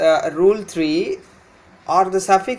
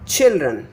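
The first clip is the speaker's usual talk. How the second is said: put-on children as CHIL-dren, falling after CHIL; first-syllable stress; 2 semitones lower than usual. Shown as a demonstration. Teacher repeating the example, children stressed on CHIL. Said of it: "stress lies here on the beginning syllable".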